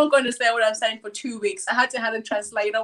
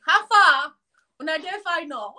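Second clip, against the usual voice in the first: Pidgin on request; 4 semitones higher, 3 dB louder than usual. Shown as a demonstration. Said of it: "do you wanna say something in Pidgin".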